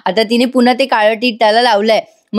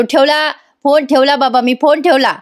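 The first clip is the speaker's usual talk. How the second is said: half-hearted imitation of yelling, slightly raised pitch; mock yell; 3 semitones higher than usual. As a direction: act out calling out, without real volume. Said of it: "मोठ्याने ओरडतो". (ओरडल्याची हलकी नक्कल)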